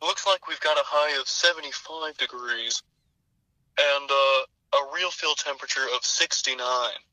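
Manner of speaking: lightly voiced Nicolas Cage reading the weather; Nicolas Cage weather report. Weatherman reading the forecast as a lightly voiced Nicolas Cage. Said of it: "Nicolas Cage with the zinger".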